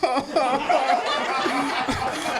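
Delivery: hammed-up comic wail; mock crying. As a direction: burst into pretend tears. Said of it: "I start crying like".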